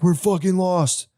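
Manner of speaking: a high, slow mock wail of despair; breaking down. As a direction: whine it out like a lost leader cracking. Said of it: "finally breaks down and is like".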